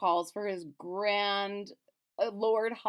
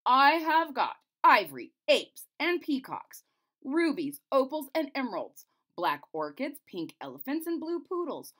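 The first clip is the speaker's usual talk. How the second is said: loud, higher grand recital; pompous list reading; 6 semitones higher, 6 dB louder than usual. Acted. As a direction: read it out like a proud courtier. Reads chamberlain's list.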